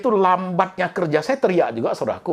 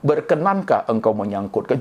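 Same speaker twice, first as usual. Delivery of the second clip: lightly hammed-up poetic politeness; mock psalm-reading. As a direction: ask it like reciting a Psalm. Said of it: "Itu baca Mazmur".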